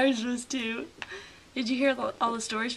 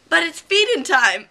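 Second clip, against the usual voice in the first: laughing protest; 4 semitones higher, 10 dB louder than usual. Retold or imitated. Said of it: "he's like".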